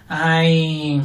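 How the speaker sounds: a drawn-out lament ay; different ay. Shown as a demonstration. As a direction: sigh it out with feeling. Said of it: "no es lo mismo decir ay".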